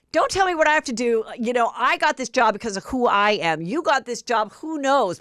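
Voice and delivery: fast, high, mock-defiant comeback; heated mock retort. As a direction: play the indignant cast mate in the van. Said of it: "she's like".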